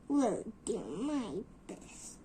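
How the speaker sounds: huffing and puffing the words; puffed. Acted. Tired engine puffing up the hill. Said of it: "he puffed".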